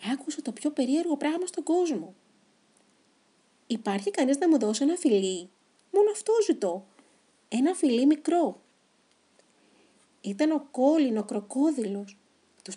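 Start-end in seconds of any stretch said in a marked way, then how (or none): 3.7-8.6 high, louder pleading crocodile voice; begging crocodile. Acted. Crocodile Colin begging anyone for a small kiss.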